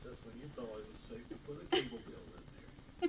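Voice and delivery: fast, playful trailer narration; movie trailer voice. Pretend. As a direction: tease it like a trailer. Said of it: "like the trailer guy voice".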